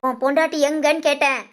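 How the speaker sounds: cross, insistent demand; irate scolding at normal volume; angry. Acted. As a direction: press for an answer in anger. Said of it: "ஏம்மா இவ்வளவு கோபமா இருக்கீங்க?".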